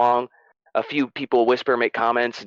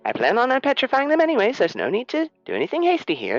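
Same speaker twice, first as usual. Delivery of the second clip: much higher, placating with a nervous laugh; nervous backing down. Acted. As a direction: soothe the dragon quickly, anxiously. Niven caves nervously.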